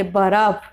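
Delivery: बर्फ broken into two syllables, baraf; mispronounced बर्फ. Shown as a demonstration. Teacher shows wrong pronunciation, बर्फ said as baraf. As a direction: add a vowel after the r in बर्फ. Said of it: "उसको उच्चारण करेंगे".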